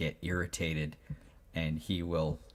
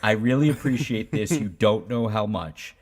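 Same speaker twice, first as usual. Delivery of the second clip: reassuring parent voice, a bit higher and louder; 4 semitones higher, 8 dB louder than usual. Retold or imitated. Father reassuring his eleven-year-old son, reassuring parent voice. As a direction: gently lecture a hugging child. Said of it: "the parenting brain kicks in".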